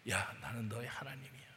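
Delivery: soft hushed whisper of reassurance; God's tender whisper. Acted. God whispering to the returning sinner, hushed and tender. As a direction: hush it, as if close in the ear.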